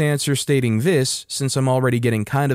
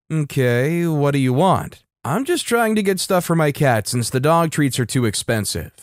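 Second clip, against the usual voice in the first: put-on lightly South African accent, conversational; a hint of a South African accent; slight South African accent. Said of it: "with a slight South African accent".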